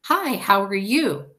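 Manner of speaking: loud, slow friendly hello; cheerful spoken greeting. Shown as a demonstration. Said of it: "I don't say".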